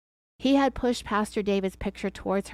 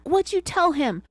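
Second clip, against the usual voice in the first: narrated shout; 8 semitones higher than usual. A narrator's reading. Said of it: "he shouted back".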